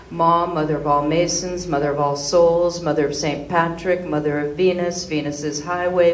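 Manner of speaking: loud, rhythmic word-by-word recital; list recitation. Acted. Performer reciting a catalogue of slang names, emphatic list recitation. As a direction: reel off the list with punchy stresses.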